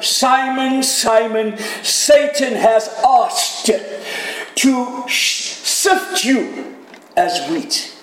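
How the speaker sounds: tearful Jesus. Acted. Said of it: "with tears in his eyes".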